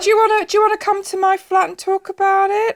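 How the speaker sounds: mock seductive invite through laughter; laughing. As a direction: tempt him, cracking up.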